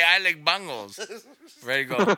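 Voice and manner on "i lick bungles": "bungles" with an "uh" in the first syllable; imitated mispronunciation. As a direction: turn bagels into "bungles", rhyming with jungles. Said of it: "No, you say".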